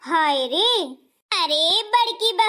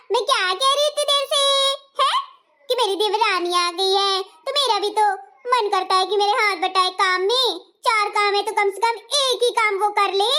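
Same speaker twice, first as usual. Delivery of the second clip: sulky elder bahu. Acted. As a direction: complain like a pampered bahu.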